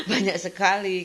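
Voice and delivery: "Banyak sekali" said through a laugh; laughing retelling. Retold or imitated. She repeats to the ustadz that he has so many kids, laughing. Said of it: "kayak gitu aku".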